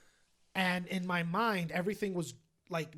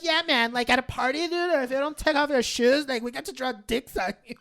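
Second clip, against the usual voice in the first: casual friend; 8 semitones higher, 10 dB louder than usual. Retold or imitated. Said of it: "He's like".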